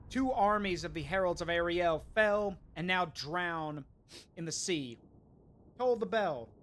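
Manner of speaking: hammy herald tolling the bell; mock proclamation. Grand proclamation to the enemy.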